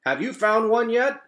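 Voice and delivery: high, loud croaky frog voice; croaking frog. Acted. Frog croaks to another frog, high and loud. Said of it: "croaked the first frog".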